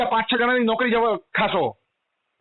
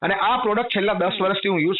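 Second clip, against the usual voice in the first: calmer, lower tone; 6 semitones lower than usual. Real, not acted. Calms down to explain his situation.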